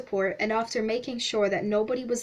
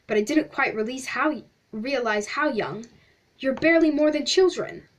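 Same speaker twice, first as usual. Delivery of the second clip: a hint of a gushing, theatrical gentleman, louder; mildly hammed-up, flattering explorer; lightly voiced pompous stranger; 4 dB louder than usual. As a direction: play the effusive stranger, lightly. Pennyroyal character voice.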